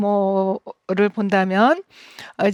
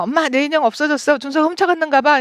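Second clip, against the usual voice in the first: put-on higher, quicker whiny child's complaint; child complaining angrily; 4 semitones higher, faster than usual. Seven-year-old telling mom her doll is stolen, whiny and upset. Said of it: "이러면서 막 화를 낸다면".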